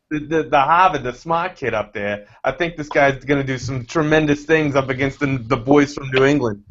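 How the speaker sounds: put-on a faint, half-hearted Harvard accent; barely-there Boston Harvard twang; lousy Harvard accent. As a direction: put on a bad Harvard accent for a smart kid. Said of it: "my lousy attempt at a Harvard accent".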